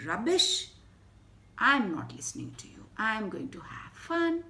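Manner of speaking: loud, brash naughty rabbit; defiant rabbit. Acted. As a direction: shrug off the warning loudly. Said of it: "He said".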